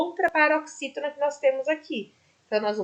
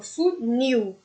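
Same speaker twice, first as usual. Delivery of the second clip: "funil" said with "nil" stronger than "fu"; stress on nil. Shown as a demonstration. Teacher showing the class the stressed syllable: "funil" with "nil" strong. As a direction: put the weight on the "nil" of "funil". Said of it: "O nil é muito mais forte que o fu".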